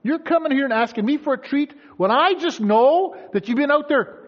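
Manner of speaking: high-pitched incredulous scolding; exasperated parent. Acted. Mom scolding kids asking for a treat, incredulous. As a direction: build to an outraged, loud question.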